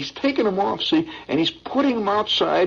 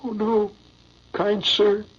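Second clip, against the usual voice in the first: put-on beseeching boy; 4 semitones higher, slower than usual. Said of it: "he said, but with a beseeching look".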